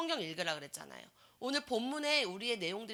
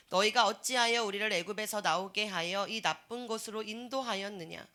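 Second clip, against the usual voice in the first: scripture reading; 5 dB louder than usual. Acted. Preacher reading Numbers aloud to the class, formal reading. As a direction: read it out like a proclamation.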